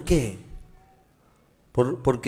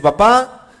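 louder, hurried eager request; child asking dad; 2 semitones higher, 6 dB louder than usual. Acted. Son begs dad for Nike sneakers, eager and loud. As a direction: play an excited kid asking for a gift.

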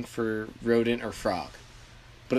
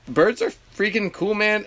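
higher and louder, gushing; excited; 10 semitones higher, 5 dB louder than usual. Real, not acted. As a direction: rave about the birds. Enthusing about birds.

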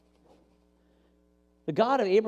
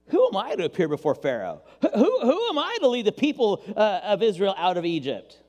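protesting Moses; 3 dB louder than usual. Acted. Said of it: "But Moses protested to God".

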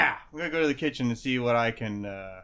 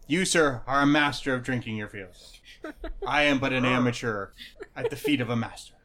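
tipsy gnome; 5 dB louder than usual. Acted. Drunk gnome praising.

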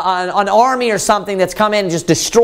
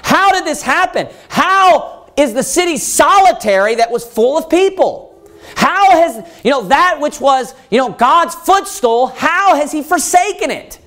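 higher, slow, stunned questions; preacher voicing the author's amazement, pitched up and slowed; astonished lament; 5 semitones higher than usual. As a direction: plead in disbelief over the ruined city. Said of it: "That's basically what he's asking".

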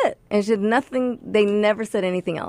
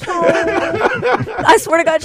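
slow, high laughing words; giggling through the phrase; 8 semitones higher, 4 dB louder, much slower than usual. Real, not acted. Laughing while telling.

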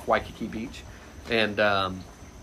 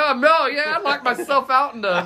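loud, high retold outburst; exasperated, pitched-up retort; comic one-upping; 11 semitones higher, 3 dB louder than usual. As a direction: top someone's petty complaint with your own disaster. Tops colleague's bad-morning complaint.

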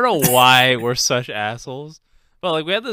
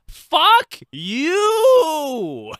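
high, loud laughing mock yell; imitated shout; 14 semitones higher, 6 dB louder than usual. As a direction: yell it back as the fed-up owner. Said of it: "And she goes".

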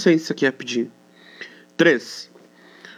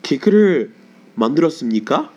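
super formal; much faster than usual. Shown as a demonstration. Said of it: "super formal".

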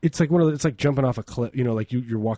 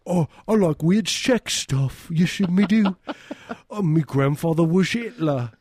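mock German accent; 4 semitones higher than usual. Comedian doing a silly German accent on request. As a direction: play a ridiculous German. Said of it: "how do you do a German accent?".

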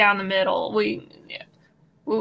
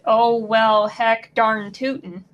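put-on drawn-out northern folksy accent; slow Minnesota-style "heck darn tootin'"; slower than usual. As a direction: imitate the folksy Northern movie dialect. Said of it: "love the way that they speak".

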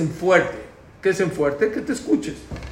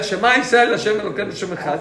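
proclaiming; 5 semitones higher, 4 dB louder than usual. Retold or imitated. Moshe proclaiming to the people.

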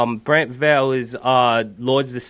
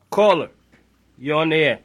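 radio host voice; 3 semitones higher than usual. Pretend. Host taking a call on air.

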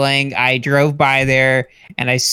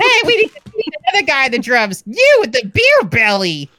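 calling out; 12 semitones higher than usual. Acted. Calling out to audience member.

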